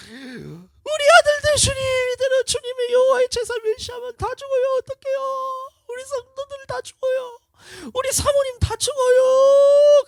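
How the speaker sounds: very high, loud pleading wail; desperate crying out. Retold or imitated. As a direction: wail to God begging for the flock. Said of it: "하면서 막 이렇게 부르짖는 거예요". (성도를 위해 아주 높게 울부짖으며 간구)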